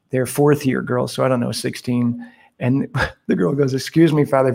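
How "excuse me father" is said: very polite. Retold or imitated. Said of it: "very politely in English".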